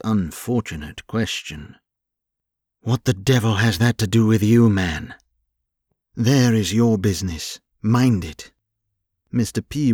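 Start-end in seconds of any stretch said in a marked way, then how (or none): 2.8-5.1 fast, louder, indignant snap; angry outburst. Acted. Rawlings in a rage at the nosy hireling, fast and angry. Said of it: "Rawlins was in a great rage". 6.1-8.5 angry rebuke. Acted. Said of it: "Rawlins was in a great rage".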